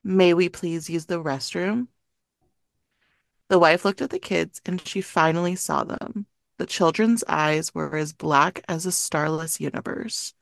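measured scary-story reading; story narration. A narrator's reading. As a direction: read the eerie tale aloud to friends. Reads a creepy story aloud.

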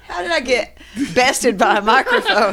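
amused question through laughter; laughing disbelief. Real, not acted. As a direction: tease yourself while cracking up. Joking after a mishap.

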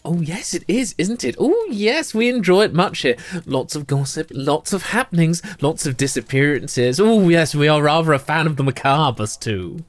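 two giddy gossips swapping fashion boasts; gossiping twin sisters. Acted. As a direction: chatter like delighted society sisters. GM voicing the twins.

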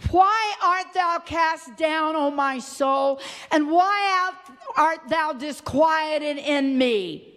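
slow, weighty questioning; solemn scripture recital. Real, not acted. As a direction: stretch out the psalmist's question.

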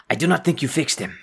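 a guard reproaching the construct; stern guard voice. Acted. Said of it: "guard voice".

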